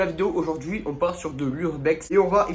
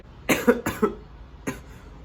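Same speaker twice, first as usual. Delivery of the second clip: coughing fit. Real, not acted. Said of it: "je tousse beaucoup".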